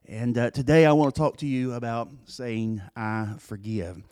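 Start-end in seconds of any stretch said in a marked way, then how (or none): 3.0-4.0 soft solemn I forgive. Acted. Preacher introduces the phrase.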